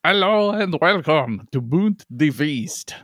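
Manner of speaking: slow, hammed-up French podcast host; French accent. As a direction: greet listeners in a put-on French accent. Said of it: "do it in a French accent".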